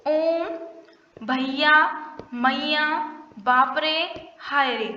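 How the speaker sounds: ओम, भैया, मैया with the vowels drawn out long; teacher dragging out ओम, भैया, मैया, बाप रे, हाय रे; prolonged vowels. Shown as a demonstration. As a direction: stretch each word's vowel well past a normal long vowel. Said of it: "उच्चारण में आपको ह्रस्व दीर्घ स्वर से भी ज्यादा समय लगता है".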